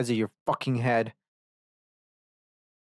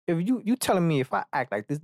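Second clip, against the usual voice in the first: higher-pitched acted disbelief; incredulous; 6 semitones higher than usual. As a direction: demand confirmation of an absurd claim. Acting out disbelief at the advice.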